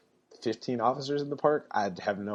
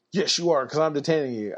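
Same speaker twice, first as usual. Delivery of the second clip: mock stern cop; 4 semitones higher than usual. Irritated cop telling the arrested man he's detained, stern. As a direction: lay down the law as the irritated cop.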